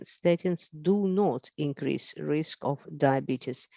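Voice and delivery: slow, deliberate, word by word. Shown as a demonstration. Lecturer stressing the key point to the congress audience, slowly. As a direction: spell it out slowly so it sinks in. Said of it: "Let me say it very slow".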